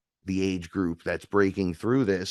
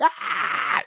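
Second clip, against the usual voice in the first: imitated scream; 8 semitones higher than usual. Mimicking panicked people in a fight, mock scream. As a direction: mimic a scream at contained volume. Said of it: "He was touching and screaming".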